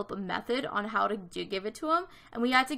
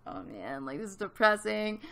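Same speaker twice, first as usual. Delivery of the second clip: mopey lament; 3 semitones lower than usual. Retold or imitated. Retelling turning twenty-five, teary.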